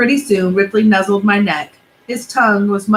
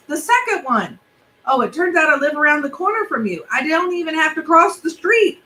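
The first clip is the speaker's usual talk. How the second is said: put-on higher, quicker friendly boy; eager kid neighbor; 4 semitones higher than usual. Alexander riding up to Benji on his bike, higher and eager. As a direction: chirp it like a keen classmate.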